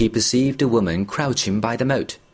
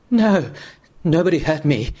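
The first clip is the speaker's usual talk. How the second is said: higher, breathless denial; panting; 5 semitones higher than usual. Acted. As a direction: gasp it out, still terrified. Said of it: "panted the other".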